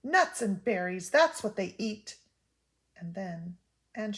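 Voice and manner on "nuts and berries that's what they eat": a loud, indignant exclamation, rising on the last words; Homily bursts out louder; exclaiming. Acted. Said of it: "She had heard Homily exclaim".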